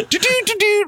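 high-pitched mock jingle "do-do"; quick high doo-doo sound effect; sung-out montage noise. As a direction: imitate busy action with high little doots. Imitates frantic montage sound.

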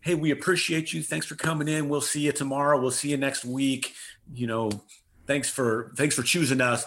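see them off eagerly, voice lifted; enthusiastic farewell. Retold or imitated. Clinic staff saying goodbye to valued patients, enthusiastic. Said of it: "have an enthusiastic".

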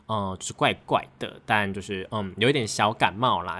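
slightly hoarse voice from a cold. Real, not acted. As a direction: talk with a touch of a head cold. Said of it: "我现在好像有一点点的声音有点，呃，就是怪怪的".

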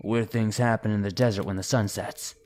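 rough gruff warning voice. Retold or imitated. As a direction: growl it out like a weathered stranger. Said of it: "said in a gruff voice".

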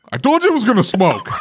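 high, indignant mock retort; exasperated retort. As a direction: fire back as if fed up with the customer. Acted retort to complaining customer.

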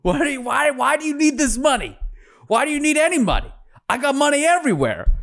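mock rage, voice shooting up high; furious outburst. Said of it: "that pissed Anna off".

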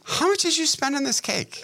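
exasperated. Retold or imitated. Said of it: "imagine her saying".

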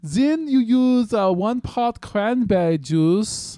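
wrong recipe read. Acted. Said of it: "so now you're reading it wrong".

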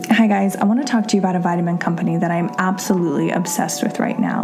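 brisk, upbeat sponsor read over music; host pitching vitamins to her podcast listeners, upbeat ad read. Acted. Podcast host selling a sponsor to listeners, cheerful ad read.

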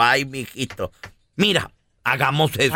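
papá con voz más baja y suave; papá comprensivo. Acted. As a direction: consuela al hijo bajito, sin prisa. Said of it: "se soltaba riendo el papá, le dijo". (papá tranquilizador)

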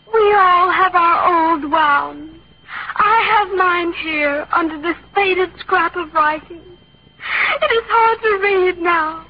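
milk every word like a tragic heroine; overacted death scene. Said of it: "We'll do the death scene".

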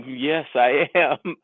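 slow, grand self-assured reply; answering a stranger's autograph question, proudly slow; proud yes. Retold or imitated. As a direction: savor it slowly like a star. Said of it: "And I said".

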